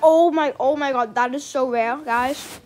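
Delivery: loud thrilled gasp at a rare find; excited. Real, not acted. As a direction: burst out over a rare pet. Spots a rare pet.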